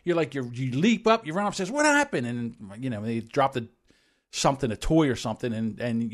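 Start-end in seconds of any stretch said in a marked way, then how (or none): 1.7-2.3 mock parental panic. Panicked parent runs upstairs.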